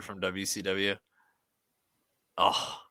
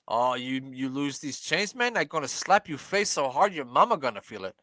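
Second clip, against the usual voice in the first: badly faked Razor Ramon accent, slightly raised; horrible Razor Ramon accent; 3 semitones higher than usual. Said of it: "That was a horrible accent".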